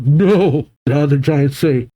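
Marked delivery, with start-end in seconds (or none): 0.0-0.7 understated cry of "no"; a raised, restrained cry; mild acted scream. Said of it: "screams out".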